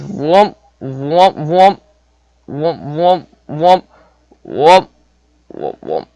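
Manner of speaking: short repeated whoomps; imitated whoomp noise. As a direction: punch out separate whoomps like a sound effect. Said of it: "and it goes".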